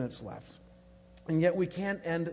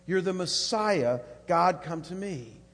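louder, ringing declaration; proclaimed confession; 5 dB louder than usual. Acted. Preacher repeating Peter's confession, now louder and declared. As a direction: announce it to the whole room.

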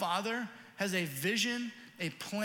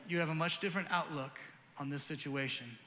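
fatherly wisdom. Retold or imitated. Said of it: "as a father with a little bit more wisdom".

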